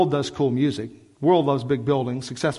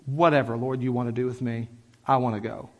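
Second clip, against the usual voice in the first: surrendered prayer; 4 semitones lower than usual. Acted. Voices a surrendered prayer to God.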